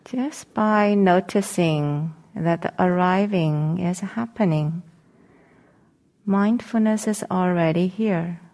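calm meditation guidance with long pauses; guided meditation. Acted. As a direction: gently guide them into settling, leaving long silences between phrases.

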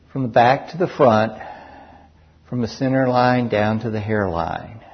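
unhurried guided body-scan voice, long pauses between phrases; guided meditation. Real, not acted. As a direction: guide listeners calmly through each sensation, leaving space after each.

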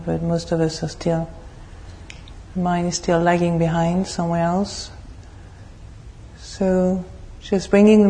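measured, even meditation guidance with long pauses; guided meditation. Real, not acted. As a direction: lead the group calmly into stillness, phrase by phrase.

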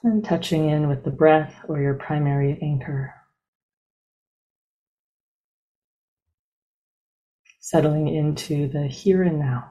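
unhurried, evenly paced meditation guide, long silences between phrases; guided meditation. Real, not acted. Teacher leading a group into breath meditation, calm and spacious. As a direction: ease listeners into stillness, one measured phrase at a time.

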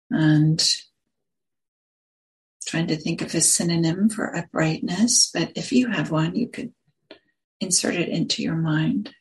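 unhurried phrases with long pauses between them; guided meditation. Acted. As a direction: guide listeners gently into the body, leaving space after each phrase.

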